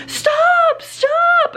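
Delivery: very high-pitched mock yell; squealed, imitated yell of protest; imitated kid yelling. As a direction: mimic a mad kid yelling at another. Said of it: "yelling at him and he's like".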